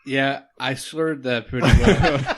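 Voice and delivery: laughing. Real, not acted. Laughing at his own slip.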